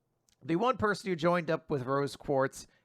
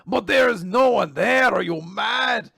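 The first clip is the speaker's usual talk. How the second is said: shocked disbelief; 5 semitones higher, 6 dB louder than usual. Acted. Charles shocked at Lance.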